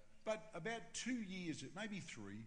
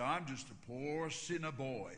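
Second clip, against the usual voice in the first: lightly voiced Texan; 3 semitones lower than usual. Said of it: "He said".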